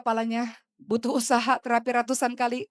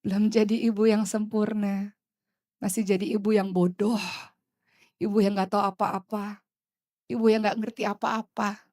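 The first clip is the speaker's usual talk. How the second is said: put-on gentle, remorseful apology to a child; mother apologizing to her child, remorseful; mock apology to child. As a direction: say sorry to your child humbly. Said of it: "minta maaf kepada anak-anakmu".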